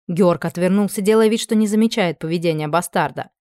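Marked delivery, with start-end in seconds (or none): none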